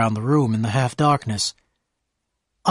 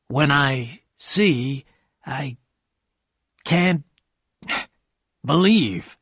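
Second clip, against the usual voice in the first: halting, very slow wonder; slowly; much slower than usual. A narrator's reading. Gatsby to Daisy and narrator, speaking slowly. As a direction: drag each word out, lost in awe. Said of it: "Gatsby said slowly".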